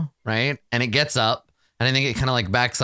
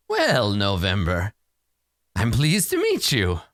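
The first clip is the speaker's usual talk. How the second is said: theatrical creature voice, rising much higher on its name; courteous horse creature; 5 semitones higher than usual. Acted. Unicorn greets a new visitor, courteous theatrical voice. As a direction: introduce yourself grandly, stretching the name out slow and high. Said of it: "it looks down and says".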